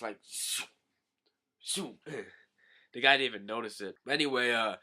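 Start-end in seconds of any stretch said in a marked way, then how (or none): 0.3-2.0 soft whispery zoom; hushed zoom sound effect; quick whoosh noise. Retold or imitated. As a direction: imitate a lightning-fast attack whooshing past. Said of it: "lightning fast attacks".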